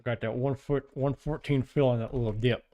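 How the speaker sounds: talking around a pen in the mouth; words half-blocked by a pen held in the teeth. Real, not acted. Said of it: "I've got a pen in my mouth".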